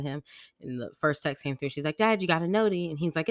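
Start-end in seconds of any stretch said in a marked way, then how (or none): 2.0-2.9 higher, louder imitation of a child's question; kid alerting dad. Daughter telling dad about a text, simply alerting. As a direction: chirp a quick question in a kid voice.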